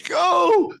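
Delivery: high, loud stage shout; shouted command. Acted. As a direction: hurl the command.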